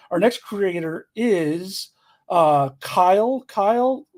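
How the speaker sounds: slow drawn-out ring announcer intro; wrestler voice. Pretend. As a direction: stretch the name like a ring announcer. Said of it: "I'm working on my wrestler voice".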